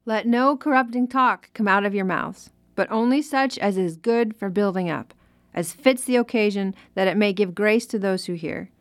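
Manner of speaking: measured, even reading of Bible verses; scripture reading. Acted. Host reads Ephesians verses for the preacher, measured scripture reading. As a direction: read it out plainly as scripture for listeners.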